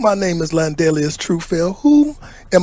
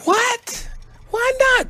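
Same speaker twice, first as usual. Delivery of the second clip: high astonished squeal; disbelief, pitched way up; shocked; slower than usual. Acted. Shocked at refusal.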